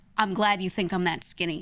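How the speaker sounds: mock good-natured, light joking tone. Retelling a remark to a man whose cart blocked the way: retelling own joking remark. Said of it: "I said it in a joking manner".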